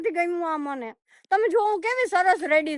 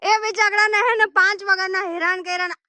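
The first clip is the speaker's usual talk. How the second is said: mock anger; 6 semitones higher, 3 dB louder than usual. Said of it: "મને એટલો ગુસ્સો આવે છે ને".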